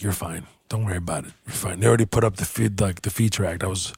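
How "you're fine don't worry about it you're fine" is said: reassuring manager. Retold or imitated. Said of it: "The manager's like".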